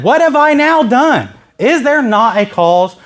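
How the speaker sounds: high-pitched protest, slowing at the end; indignant self-defence; fired up. Acted. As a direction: plead your case with acted indignation. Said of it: "I'm actually fired up about it".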